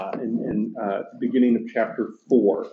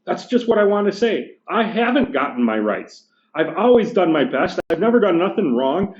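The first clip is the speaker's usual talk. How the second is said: higher, indignant working-class ghost; gruff big ghost; 5 semitones higher than usual. Acted. Teacher reading the ghost complaining to the bright spirit, indignant. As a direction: bluster like an aggrieved ghost. Ghost arguing for his rights.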